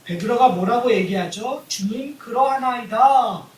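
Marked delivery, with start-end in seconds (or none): 1.7-3.5 brazen reply. Retold or imitated. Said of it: "뻔뻔하죠?".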